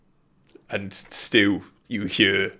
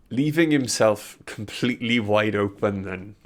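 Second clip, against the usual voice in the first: game master narration. Acted.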